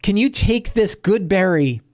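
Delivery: hint of a friendly adventurer bargaining with a bunny; lightly voiced pleading hero. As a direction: gently ask the rabbit for a favour. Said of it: "Perrin is like".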